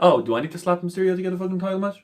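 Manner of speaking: hammed-up complaint from the wrestler; mock wrestler quote. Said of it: "Benjamin Kemp was like".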